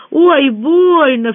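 high, loud, drawn-out ow; cry of pain. A narrator's reading. Kesha with a hurt jaw, crying out in pain. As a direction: cry out in pain, stretching the words. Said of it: "вскрикнул Кеша".

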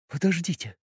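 frightened. Acted. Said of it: "испуганно произнесла Маша".

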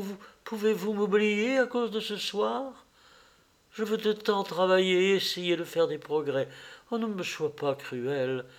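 lightly voiced pleading young actress; Sibyl, pleading lover. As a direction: beg gently, with halting starts. (amoureuse suppliante, légèrement jouée)

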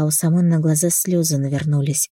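plain reading voice

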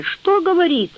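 plain reading voice

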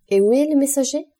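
anxious, demanding where the messenger is; urgent question. A narrator's reading. Franz presses the servant for news, urgently.

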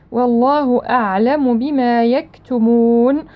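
slow recitation, long held oo in يكتمون; prolonged final vowel. Shown as a demonstration. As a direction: stretch the last vowel of يكتمون before stopping. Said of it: "والمد عارض للسكون".

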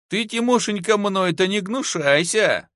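high, teasing coquetry; tipsy, coy singsong; giggly. A narrator's reading. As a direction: wheedle him flirtatiously. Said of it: "захихикала баба".

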